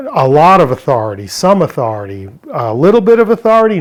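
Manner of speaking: mock questioning. Shown as a demonstration. Mock options against all authority.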